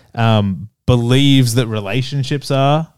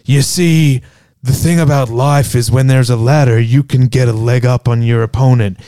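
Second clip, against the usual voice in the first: mock serious. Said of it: "trying to get all serious".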